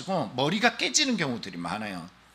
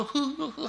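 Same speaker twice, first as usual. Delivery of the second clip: high, soft mock sobs; imitated crying sound; imitated sobbing; 12 semitones higher, 4 dB quieter, slower than usual. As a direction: act out helpless weeping in little bursts. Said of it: "하면서 막 울어요".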